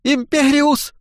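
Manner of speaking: high, piercing cry of a spell; a frightened apprentice's high yelp; shouted spell. A narrator's reading. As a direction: fling the word out high. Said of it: "выкрикнул".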